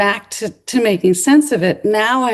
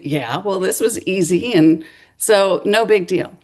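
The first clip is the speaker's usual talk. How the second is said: dismissive shrug; 2 semitones lower than usual. Retold or imitated. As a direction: toss it away like it's nothing. Students shrug it off.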